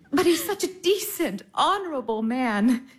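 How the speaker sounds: light laugh through the words. Acted. Sister laughing as she praises the plain Baron. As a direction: giggle while praising him.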